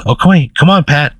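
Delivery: lightly voiced cheering coach; coaxing gym teacher. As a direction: urge a shy pupil along. Coach coaxes student again.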